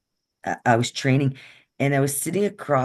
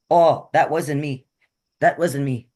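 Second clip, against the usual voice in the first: defensive denial; 3 semitones higher, 5 dB louder than usual. Retold or imitated. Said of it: "Like, he got like that".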